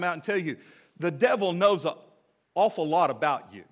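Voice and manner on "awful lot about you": "awful" emphasized, set off by a short pause before it; stress on awful. Real, not acted. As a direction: lean on "awful" with a long first vowel. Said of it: "I emphasize the word awful".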